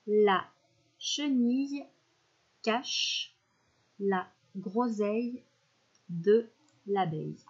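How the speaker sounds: slow, word-by-word dictation. Shown as a demonstration. Teacher dictating a sentence to the class, slow. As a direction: read it out word by word with pauses. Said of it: "Je la répète une dernière fois".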